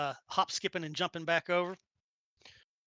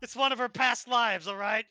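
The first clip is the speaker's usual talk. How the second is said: put-on New Yorker accent; hammed-up New York voice; 2 semitones higher, 6 dB louder than usual. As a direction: explain it in broad Brooklynese. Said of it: "She used to be a New Yorker".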